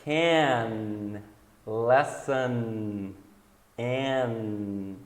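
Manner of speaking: can, lesson, an, each held on the nasal N; drawn-out final N. Shown as a demonstration. Teacher gives examples, can, lesson, an with long final N. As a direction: linger on the last N of can, lesson, an.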